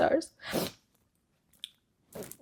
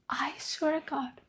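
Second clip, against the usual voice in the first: whispered oath; 7 dB quieter than usual. Real, not acted. Emotional confession about book.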